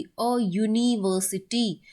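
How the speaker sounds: अ यूनिवर्सिटी slowly, with a clear y onset; y sound shown. Shown as a demonstration. Teacher shows the y sound, यूनिवर्सिटी said slowly. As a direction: draw out the y opening of यूनिवर्सिटी. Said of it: "तो य की आ रही होगी".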